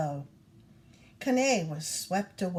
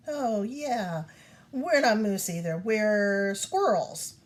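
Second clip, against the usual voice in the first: mock agreement; 3 dB louder, slower than usual. Moose plays along mockingly.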